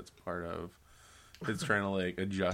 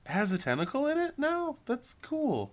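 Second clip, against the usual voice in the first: excited; 5 dB louder than usual. Real, not acted. Mock excited reaction.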